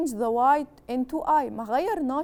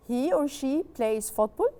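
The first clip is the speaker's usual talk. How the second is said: slow plain statement. Shown as a demonstration. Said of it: "teacher modelling statement".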